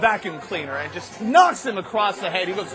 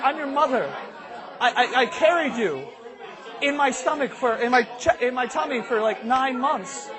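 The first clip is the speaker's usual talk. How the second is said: slightly higher, halting motherly appeal; pleading mother; 5 semitones higher than usual. Acted. Mother coaxes son to tell, lightly voiced. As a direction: appeal lightly as a mom, hesitating. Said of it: "It's like".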